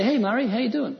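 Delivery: a joking hello breaking into laughter; laughing greeting. Real, not acted. Preacher greeting pastor Murray with a laugh.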